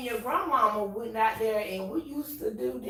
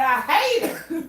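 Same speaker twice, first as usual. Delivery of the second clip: slow mock whine; 6 semitones higher, 6 dB louder, much slower than usual.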